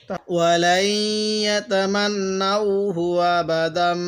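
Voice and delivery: slow chanted Quran reading; slow Quranic recitation, steady; joined recitation. Shown as a demonstration. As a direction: recite the verse, drawing out each word. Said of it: "আরেকবার মিলিয়ে পড়ব".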